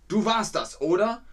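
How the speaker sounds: high, pushy accusation; accusing wolf. Acted. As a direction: confront the lamb as the wolf. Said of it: "Der Wolf hat gesagt".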